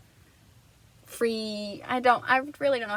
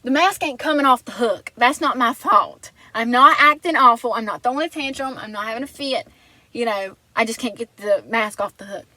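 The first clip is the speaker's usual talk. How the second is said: louder, protesting I'm not having a fit; pleading my case to Caitlin, a bit louder and defensive; defensive retort; 6 dB louder than usual. Retold or imitated. Heated self-defence over the stuck mask, louder. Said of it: "I'm like".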